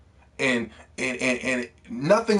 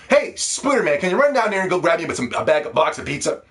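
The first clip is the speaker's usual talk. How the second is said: mock NPC. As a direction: mimic a needy game character begging favors. Mocking quest-giver NPC requests.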